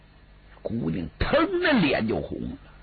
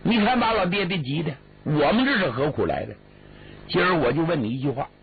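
exasperated brother; 5 semitones higher, faster than usual. Acted. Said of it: "最后李俊说话了".

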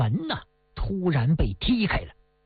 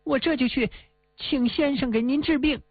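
holding back grief; 5 semitones higher than usual. Acted. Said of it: "那是强忍着悲痛说".

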